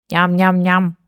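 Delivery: steady nom-nom chewing; munch along in an even tone; contented munching. A narrator's reading. Baby bird chews red berries, contented munching. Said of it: "жевал довольный Птенчик".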